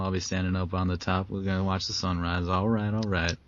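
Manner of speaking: lightly voiced laid-back Texan McConaughey; a hint of a Texan McConaughey twang, relaxed; McConaughey impression. McConaughey announcing store opening to customers, light Texan twang. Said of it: "Little McConaughey".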